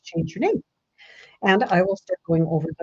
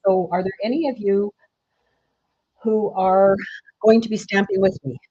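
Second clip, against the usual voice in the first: in a barrel. Real, not acted. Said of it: "Sounds like I'm in a barrel".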